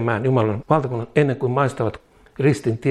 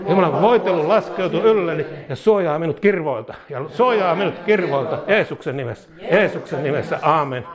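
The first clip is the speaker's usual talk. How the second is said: proclaimer's voice; 3 semitones higher than usual. Shown as a demonstration. Pastor leading the congregation in a bold prayer declaration. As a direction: declare it boldly, each phrase hammered home. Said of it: "lausutaan oikein julistajan äänellä".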